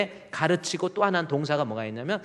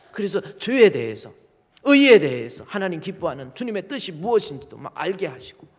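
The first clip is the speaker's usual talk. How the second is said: shouting climax; 5 semitones higher, 7 dB louder than usual. Real, not acted. Loud climax.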